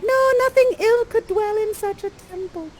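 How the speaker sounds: high-pitched pleading heroine; high, dramatic verse plea; Miranda. Acted. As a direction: protest in a lifted, theatrical maiden voice. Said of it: "And Miranda's like".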